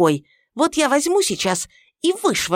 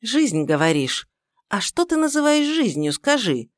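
heated mother-in-law; 5 semitones higher, 4 dB louder than usual. Acted.

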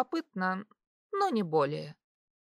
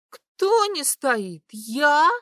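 high, loud, slow astonished protest; hammed-up tipsy indignation; drunken surprise; 6 semitones higher, 6 dB louder, much slower than usual. A narrator's reading. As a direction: play the offended drunk. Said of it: "Страшно удивилась я".

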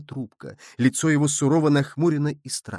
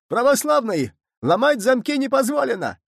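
much higher, louder squealing alarm; shrill frightened; 11 semitones higher, 4 dB louder than usual. A narrator's reading. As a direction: squeal it out in panic. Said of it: "визгливо и испуганно сказал". (визгливо и испуганно, намного выше)

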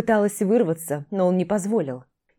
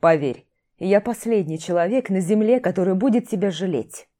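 harsh; 3 dB louder than usual. Acted. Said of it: "Отрезал жёстко".

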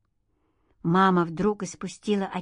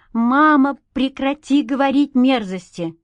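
loud, much higher outcry; shouted; 5 semitones higher, 6 dB louder than usual. A narrator's reading. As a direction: shout her mother down in disgust. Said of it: "выкрикнула Света".

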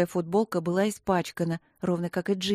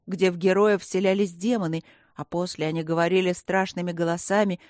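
ordinary delivery, nothing marked

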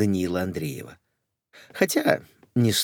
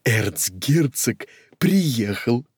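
coquettish; much slower than usual. Acted. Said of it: "кокетливо сказала Кока".

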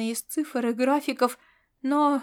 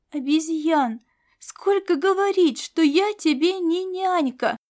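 scolding; 5 semitones higher, 3 dB louder than usual. Acted. Cat scolds Laszlo.

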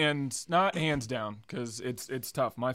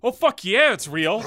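mock mad scientist, much higher and louder; gleeful mad scientist; 8 semitones higher, 11 dB louder than usual. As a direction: crow it out like a delighted lunatic. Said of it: "he wheels over and he's like".

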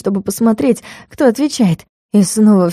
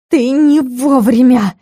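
barked rebuke; 4 semitones higher, slower than usual. A narrator's reading. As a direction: bark it to scare them off. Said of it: "рявкнула так". (громко и резко рявкнуть)

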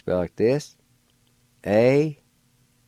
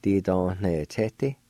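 slower take. Shown as a demonstration. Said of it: "like this".

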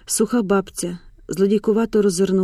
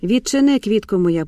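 calling through the door. A narrator's reading.

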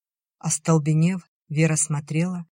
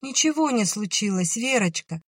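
hurried; 6 semitones higher than usual. A narrator's reading. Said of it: "торопливо проговорила Надя".

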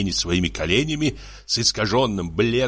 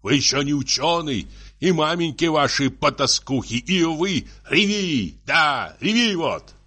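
higher-pitched, hectoring lecture; angry scolding; 6 semitones higher than usual. Acted. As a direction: scold her, building to an exclamation. Tipsy husband scolds crying wife.

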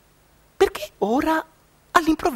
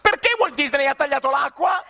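indignant shout; 5 semitones higher than usual. Acted. Painter yelling at Disney for cutting the water, angry shout. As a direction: shout it up at the sky, baffled and angry. Painter outraged the stream vanished.

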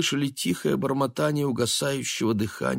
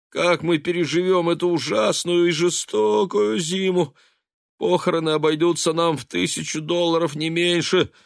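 rising, louder self-pitying wail; wailing lament; 7 semitones higher, 3 dB louder than usual.

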